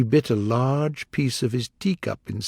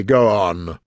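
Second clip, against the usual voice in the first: sharp; 4 semitones lower, 5 dB louder than usual. Acted. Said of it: "said the king sharply".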